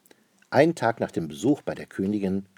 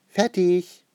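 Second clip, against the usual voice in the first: high, louder cheerful call; 11 semitones higher, 6 dB louder than usual. A narrator's reading. Franzi announces the painting is finished, calling out. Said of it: "ruft Franzi".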